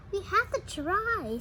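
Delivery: rally everyone to keep looking; determined. Acted. Grasshoppers urging the others on, high and loud.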